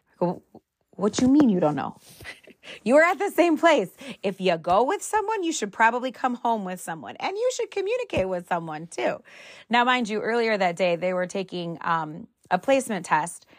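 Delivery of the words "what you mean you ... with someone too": exasperated scolding. Retold or imitated. Mom scolding son who lost brother.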